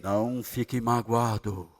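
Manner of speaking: very low, slow booming God voice; deep cinematic voice of God; movie trailer voice. Pretend. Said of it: "Essa voz de cinema é necessário?".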